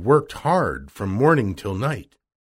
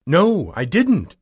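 loud, slow, higher-pitched denial; girl pleading innocence, voice raised; Dorothy protesting; 5 semitones higher, 5 dB louder, slower than usual. A narrator's reading. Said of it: "answered Dorothy".

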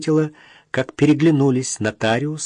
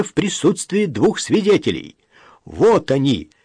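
stern; 8 semitones higher, 4 dB louder than usual. A narrator's reading. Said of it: "строго сказал нотариус".

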